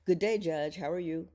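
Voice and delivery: lightly acted polite greeting; a hint of a friendly customer; greeting fan. Shopper greeting the judge in line, lightly acted.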